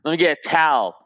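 towel as one syllable, no W; dropped W. Shown as a demonstration. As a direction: local Philly way of saying towel. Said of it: "they leave the W out".

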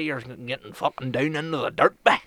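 slow, rural Northern Irish accent. Shown as a demonstration. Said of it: "you go even deeper that".

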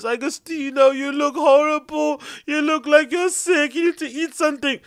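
worried fussing voice. Retold or imitated. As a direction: fuss over him like a worried mum. Worried relative voiced, high and far.

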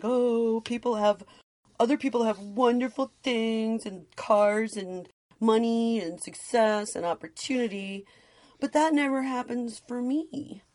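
high, whining complaint; whiny voice. Shown as a demonstration. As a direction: whine it like poor me. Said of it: "I said that in a whiny voice".

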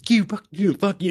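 high mock yell of fuck you; imitating angry trucker. Host imitating the trucker's rant, mildly mock yelled. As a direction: replay the trucker's crescendo, half-mocking. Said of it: "that crescendo he builds to".

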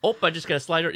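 quick Midwest "Oop", polite; "Oop" short, then slide by politely; Midwest accent. Shown as a demonstration. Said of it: "it's like that".

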